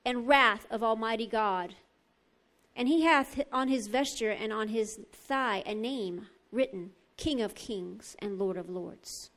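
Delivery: measured, solemn Bible reading; scripture reading. Acted. Preacher reading Revelation nineteen to the congregation, solemn proclamation. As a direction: proclaim the verses with weighted key words.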